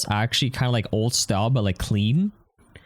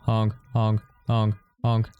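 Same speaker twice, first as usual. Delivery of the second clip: car alarm honking; slower than usual. Pretend. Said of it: "Car alarm is going off again".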